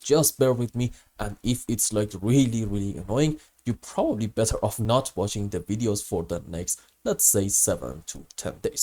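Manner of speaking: rough voice from a cold; grating voice. Real, not acted. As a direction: talk through a bad cold, voice worn. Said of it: "apologize for my terrible voice".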